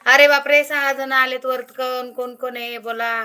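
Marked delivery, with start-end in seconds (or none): 0.1-1.6 loud burst of surprise; surprised exclaim. Real, not acted. Streamer surprised that six viewers joined her live. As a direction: gasp it out in delight.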